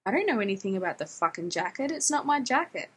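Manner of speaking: quick, irritated denial rising at the end; mildly angry retort. Acted. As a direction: rattle it off in mock annoyance. Retold angry stranger in quarrel.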